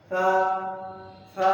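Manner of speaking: সা from the tongue tip with no whistle. Shown as a demonstration. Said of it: "সার উচ্চারণ হবে জিহ্বার আগা থেকে, কিন্তু শীষ ছাড়া". (জিহ্বার আগা থেকে শীষ ছাড়া সা)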